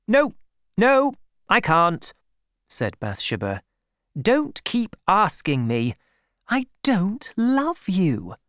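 lightly voiced young woman pushing him away; Bathsheba refusing again. Young woman refuses Gabriel's pleas, lightly voiced and insistent.

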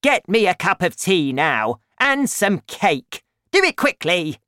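loud, high, bossy demand; imperious grandma hollering; grandma's shout. A narrator's reading. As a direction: yell orders down from the roof. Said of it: "she shouted".

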